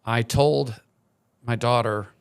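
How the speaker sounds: fighting back real tears, halting between phrases; choked up. Real, not acted. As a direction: hold back tears, let long pauses fall. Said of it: "much like me right now".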